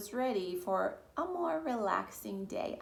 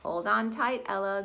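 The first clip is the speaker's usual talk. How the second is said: calling out; 9 dB louder than usual. Acted. Grandma calling over boat.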